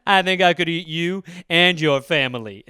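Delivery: chuckling menace; laughing. Pretend. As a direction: laugh through the line. Cannibal replying, laughing.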